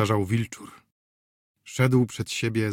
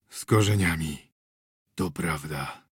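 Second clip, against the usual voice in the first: put-on drunken mumble; 7 semitones lower than usual. A narrator's reading. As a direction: slur it out, half asleep from vodka. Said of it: "wybełkotał".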